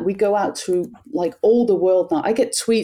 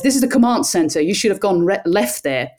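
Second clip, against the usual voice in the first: a light mock radio-control voice; husband as command center; 2 semitones higher than usual. Husband on the phone playing command center, light mock radio voice. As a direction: lightly play a mission controller giving directions. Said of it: "and he says".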